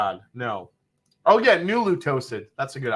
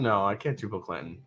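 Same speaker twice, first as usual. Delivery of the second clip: ordinary talk, nothing marked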